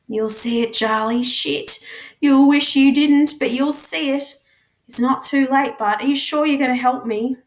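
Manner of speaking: a hint of a rough teenage boy warning his friend; lightly voiced Jasper. Jasper warns Charlie at the clearing.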